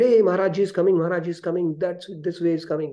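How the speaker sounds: lightly acted excited heads-up; excited announcement. Someone announces the guru's arrival.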